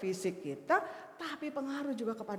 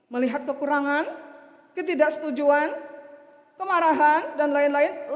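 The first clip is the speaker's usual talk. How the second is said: rising preaching; 3 semitones higher, 12 dB louder than usual. Acted. Preacher building up list.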